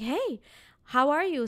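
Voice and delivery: lightly acted friendly driver; friendly greeting. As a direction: imitate a driver welcoming boarders. Driver greets new riders, retold.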